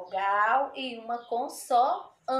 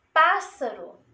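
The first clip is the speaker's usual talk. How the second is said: 1 model; 3 semitones higher, 5 dB louder than usual. Shown as a demonstration. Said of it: "Dois, dois S's".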